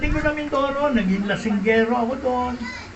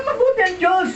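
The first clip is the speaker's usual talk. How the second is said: fervent declaration; 7 semitones higher than usual. Retold or imitated. Friend repeating his faith.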